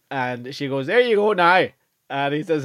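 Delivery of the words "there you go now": put-on higher Northern Irish accent; lightly voiced Northern shop woman; Northern shop assistant. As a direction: play the Northern off-licence woman. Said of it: "off license in the north".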